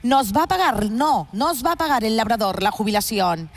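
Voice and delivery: lightly put-on Italian accent; acento italiano. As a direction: read the letter as an Italian mayor. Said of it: "tiene con el acento italiano". (leve acento italiano imitado)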